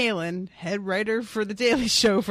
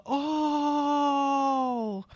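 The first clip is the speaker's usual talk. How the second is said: mock gasp; 6 semitones higher than usual. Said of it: "I was definitely doing a bit of".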